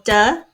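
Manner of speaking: "duh" with a schwa vowel; first syllable of defeated, sounded out as "duh"; isolated schwa syllable. Shown as a demonstration. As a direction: say "duh" alone, as a separate syllable. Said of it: "I can hear the schwa sound".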